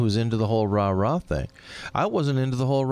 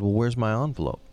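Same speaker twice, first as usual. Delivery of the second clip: facetious. Retold or imitated. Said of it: "rather facetiously".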